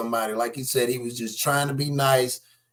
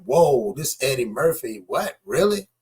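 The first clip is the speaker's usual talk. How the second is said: retold disbelief. A fan reacting to the Eddie Murphy news back then, mock disbelief. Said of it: "back then it was just like".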